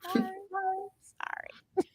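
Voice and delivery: small, high, soft apology; mock-meek little voice fading to a whisper; imitating a scolded child saying sorry; sheepish. Retells meek apology to scolding sister.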